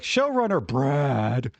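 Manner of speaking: drawn-out slow announcer read. Shown as a demonstration. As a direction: stretch it out like a big announcement. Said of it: "I gotta say it like".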